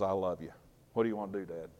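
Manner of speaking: soft, humble plea to a father; puppy-eyed child. Pretend. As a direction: speak up to Dad with big pleading eyes. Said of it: "with those big puppy dog eyes that says".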